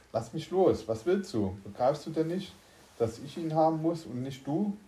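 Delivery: high, agitated protest; crying out. A narrator's reading. Spacesuit wearer wrestling with his double, high exasperated cry. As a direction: call out in exasperation while being grabbed. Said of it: "rief jener".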